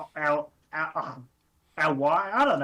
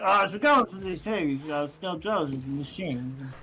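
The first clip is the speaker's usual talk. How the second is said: mumbled. Retold or imitated. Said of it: "it's just mumbled".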